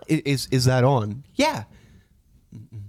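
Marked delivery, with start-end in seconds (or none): 0.1-1.2 slow, different-sounding dad voice; slow, mock-innocent camera check; dad turning to the camera, slow and sly. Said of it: "he goes".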